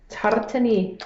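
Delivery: Scottish accent with a sounded R; amateur Scottish-accented try; attempted Scottish accent. Shown as a demonstration. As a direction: have a go at saying it in Scottish. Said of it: "say it with a Scottish accent".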